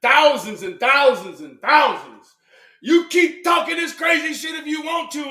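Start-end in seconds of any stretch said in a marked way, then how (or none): 2.8-5.3 warning shout. Acted. Threatening roast.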